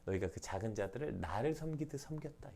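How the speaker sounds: hushed, unvoiced quote of the king; whispered quote. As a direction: whisper the king's words. Quoting the king softly. (속삭이듯 인용)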